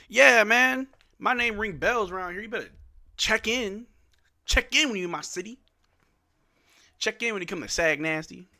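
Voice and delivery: a light put-on of a local big shot; playful mock threat to check in; street-tough swagger. Plays tough Saginaw persona.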